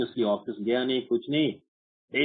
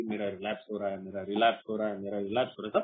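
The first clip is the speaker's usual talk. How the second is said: sarcastic imitation of a relapsing drinker; mocking relapse whine; 5 semitones lower, 5 dB quieter, faster than usual. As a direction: lower mock whine of an AA member. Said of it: "बोलते रहते हैं".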